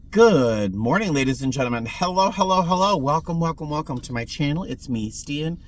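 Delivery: sing-song host greeting, rising hellos; booming sing song welcome. Shown as a demonstration. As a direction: greet the channel like a showman. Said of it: "I know I sound fully caffeinated".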